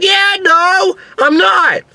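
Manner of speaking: high-pitched, shouted reply; thrilled protest. Retold or imitated. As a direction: yell back over the rush, loving it. Acts shouted reply mid-ride.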